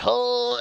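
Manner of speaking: high, held "oh" of effort; imitated straining groan. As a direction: mimic someone shoving a heavy cabinet. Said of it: "pushing the cabinet, and she's like".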